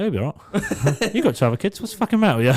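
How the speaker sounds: mock the boss's worry; laughing outrage. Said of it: "was like".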